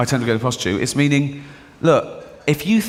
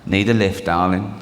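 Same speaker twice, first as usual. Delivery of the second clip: sleazy driver; 8 semitones lower than usual. Pretend. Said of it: "in it, he goes".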